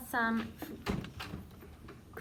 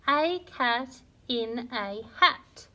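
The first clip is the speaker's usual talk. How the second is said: slow, word by word; slow reading aloud; 4 dB louder, much slower than usual. Shown as a demonstration. Teacher reading the ditty slowly to children. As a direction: read each word slowly and clearly for beginners. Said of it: "I'm going to read it for you now".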